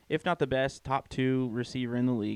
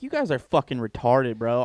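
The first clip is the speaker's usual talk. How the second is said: mildly heated, louder retold outburst; retold annoyance; 7 dB louder than usual. Fan retelling his reaction to a bad trade, mildly angry. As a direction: replay being pissed off, raised voice but not shouting. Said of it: "That pissed me off".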